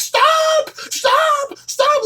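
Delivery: very high, emotional, near-breakdown screech. Retelling what a man kept saying, imitating his screeching, emotional voice. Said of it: "in this highly screeching, emotional tone of voice".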